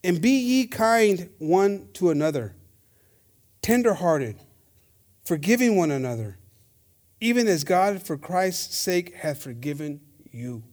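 slow, measured Bible verse; scripture reading. Real, not acted. Preacher reading a verse on forgiveness, measured scripture reading. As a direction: read it out phrase by phrase.

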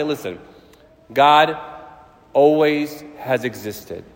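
slow, drawn-out solemn proclamation; preacher declaring God's eternity slowly; slow preaching. Acted. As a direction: let each phrase land with awe. Slow emphatic answer to child.

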